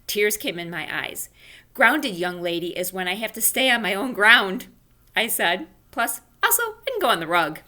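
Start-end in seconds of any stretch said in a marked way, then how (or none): 1.7-7.6 questioning. Acted. Junie explains grounding.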